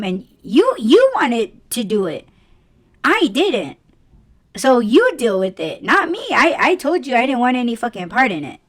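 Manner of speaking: mildly acted telling-off, emphatic on you and I; blaming refusal. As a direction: wash your hands of their problem, pointedly. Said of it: "the way that I say it is".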